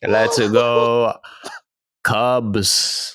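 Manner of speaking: drawn-out, badly faked London accent; bad British-Jamaican accent. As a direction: commit to a failing British accent. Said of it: "It's not getting any better".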